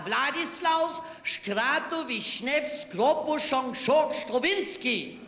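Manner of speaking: slow, drawn-out recital of the name; slowed-down repeat. Retold or imitated. Man repeats his long name to the officer, slowly. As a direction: spell it out slowly, piece by piece.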